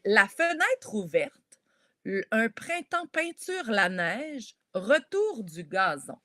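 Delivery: slow poem reading of "la fenêtre ouverte"; reading a haiku. Shown as a demonstration. Teacher slowly reading a haiku aloud to the class. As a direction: read the haiku slowly, savouring each line. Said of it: "je t'en mets un à l'écran".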